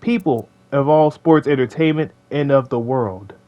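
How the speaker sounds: slow, drawn-out mock outrage, rising high on you; dramatic call-out. Roasting the creep in his own Smash or Pass video, hammed-up outrage. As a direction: point him out and drag every word like a wrestling promo. Theatrical denunciation of a character.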